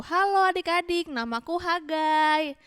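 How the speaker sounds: a hint of a character voice, drawn-out greeting; Hagai. Prophet introducing himself to the children, lightly voiced. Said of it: "Nih katanya Hagai nih gini bilangnya".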